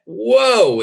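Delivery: usual speaking voice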